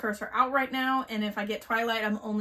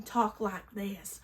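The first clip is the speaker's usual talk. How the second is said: slow, drawn-out mock accent for Dean; Dean's strong accent; 2 semitones lower, 6 dB quieter, much slower than usual. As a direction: mimic the audiobook reader's overdone Dean accent. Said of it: "talk in Dean's accent".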